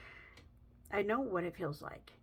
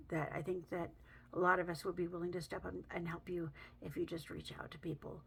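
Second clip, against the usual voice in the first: hushed; 6 dB quieter than usual. Real, not acted. Urging viewers to reach out.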